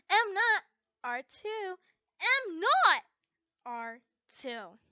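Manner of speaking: high, loud, slow sing-song denial; petulant high protest; childish denial. Acted. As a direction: whine it like a sulky kid. Childish denial to teasing friend.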